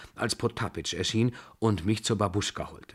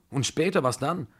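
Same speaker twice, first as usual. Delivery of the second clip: higher-pitched startled question; alarmed; 6 semitones higher than usual. A narrator's reading. Narrator asking what happens afterwards, alarmed. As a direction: press anxiously, pitched up. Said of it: "rief ich erschrocken".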